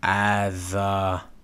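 "Adha" blended with long, held vowels; teacher's slow blend of "Adha"; sounding out. Shown as a demonstration. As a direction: stretch "Adha" evenly for a learner. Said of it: "so it's Adh".

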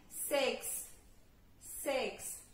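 "Six" ending in a th, as "sixth". Shown as a demonstration. Teacher models the th ending for students. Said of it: "Six com T H no final".

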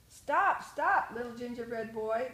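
loud, rising call to stop him; shouting after him. Acted. Old couple chasing the gingerbread boy, shouting stop.

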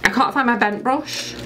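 high, whiny mock despair; mock distress. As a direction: wail lightly over a lost treasure. Still hunting for the brush.

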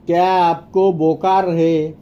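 teacher's measured repetition. Shown as a demonstration. Slower repeat for learners.

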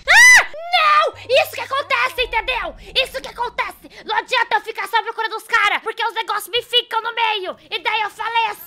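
high, loud scream into a ranting complaint; shriek, then keep venting loudly at high pitch; exasperated outburst. Real, not acted. Gamer protests dying when things block her path, exasperated outburst. Dies in game, rants about it.

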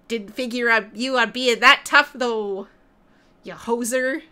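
lightly voiced Canadian character; Canadian accent. Canadian friend turning on his ally, light Canadian accent. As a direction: put on a hint of a Canadian accent. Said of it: "my Canadian friend".

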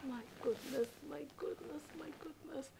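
dismayed sighs. Acted. Bride dismayed, sighing to herself.

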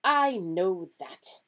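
testy, weighted character voice; irritable. A narrator's reading. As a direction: answer with open irritation. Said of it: "said Professor McGonagall irritably".

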